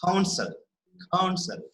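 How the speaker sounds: "Counsel" said twice, weight on -sel; stress on second syllable. Shown as a demonstration. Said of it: "we are stressing on the second syllable".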